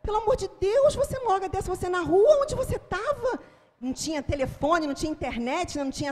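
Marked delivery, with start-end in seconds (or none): 0.0-3.3 desperate mother. Retold or imitated. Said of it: "desesperados, me esperando, falando assim".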